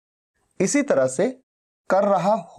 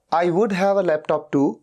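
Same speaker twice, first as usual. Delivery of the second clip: slow model sentence; much slower than usual. Shown as a demonstration. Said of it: "teacher repeats English sentence".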